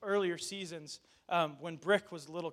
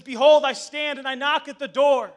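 loud, ringing reading of "Behold, I stand and I knock at the door"; big pulpit proclamation; proclaiming scripture; 5 semitones higher, 13 dB louder than usual. Acted. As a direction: announce "Behold" boldly and let it fall. Preacher reads Revelation aloud.

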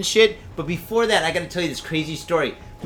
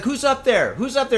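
high calling upstairs; 8 semitones higher than usual. Retold or imitated. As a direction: call out into the dark. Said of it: "I was saying, like".

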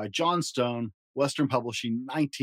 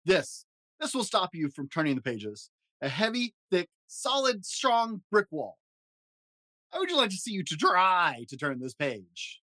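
high fuzzy Muppet monster, jittery and fretful; Grover voice; 6 semitones higher than usual. Acted. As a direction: play a nervous, lovable blue monster. Grover voice reading story.

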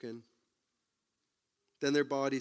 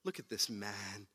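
Pilate pleading; 4 semitones lower, 10 dB quieter than usual. Retold or imitated. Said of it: "He says".

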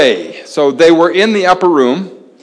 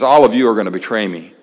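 casual, quicker and lower; nonchalant; 6 semitones lower, faster than usual. Retold or imitated. Jesus to his disciples as they walk, nonchalant. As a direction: toss it off as a passing remark. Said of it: "He says it nonchalantly".

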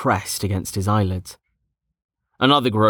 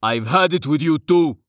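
higher-pitched, fed-up outburst; shouted; 5 semitones higher than usual. A narrator's reading. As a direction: burst out in exasperation. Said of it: "Hagar shouted".

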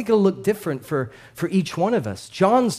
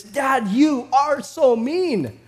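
pretend toddler protest; 7 semitones higher than usual. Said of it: "it would have been something like this".

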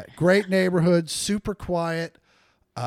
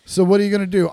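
mock parent voice; 6 dB louder, much faster than usual. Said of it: "Good luck with that kid".

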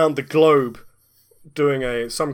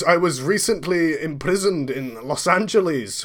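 put-on Scottish accent; 3 semitones higher than usual. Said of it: "Wallace Agentman accent".

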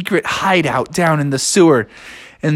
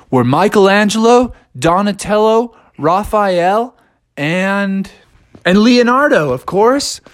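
proud roll call; 5 semitones higher, 4 dB louder than usual. Acted. Turtles proudly introduce themselves.

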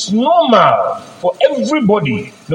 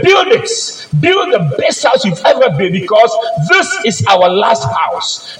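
builder's order, pitched up high and emphatic; raised commanding voice; 4 semitones higher than usual. Retold or imitated. Employer urging his foreman to build his best house, raised and emphatic. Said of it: "he said".

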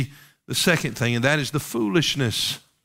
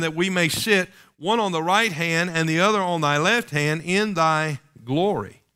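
higher-pitched pulpit reading; scripture reading; 4 semitones higher than usual. Acted. Preacher reading the disciples' request aloud, scripture reading. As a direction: read the verse out to the room. Reads the verse aloud to congregation.

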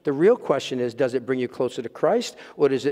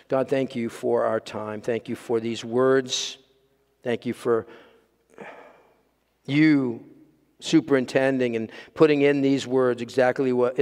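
prayer; 2 semitones lower than usual. Acted. Pastor praying for the congregation and live stream, gentle prayer.

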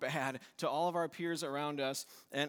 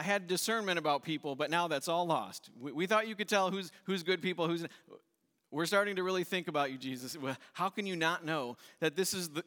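indignant crowd. Acted. Crowd voiced complaining to Jesus.

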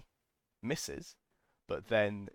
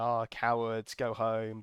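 mock yell; 5 dB louder, slower than usual. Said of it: "We yell at them".

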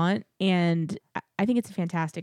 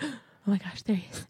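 awed hush; 6 dB quieter, much faster than usual. Retold or imitated. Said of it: "the first time I was like".

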